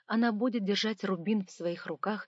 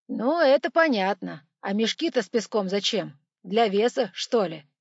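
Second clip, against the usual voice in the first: curious monk voice; 8 dB louder than usual. Acted. Timofey asks about sandbags.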